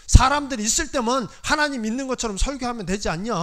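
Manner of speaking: loud, heated pleading with his mother; furious son scolding his mother; angry protest. Retold or imitated. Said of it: "막 화를 냈거든요".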